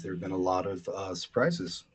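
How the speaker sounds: dry, understated delivery; deadpan. Real, not acted. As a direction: deliver it deadpan, with a small hesitation. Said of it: "So deadpan".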